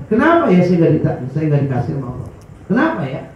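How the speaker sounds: mildly puzzled, turning the question inward; self-questioning. Acted. Believer asking himself why, self-questioning. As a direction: wonder to yourself why you were passed over. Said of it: "tanya kepada diri kita masing-masing".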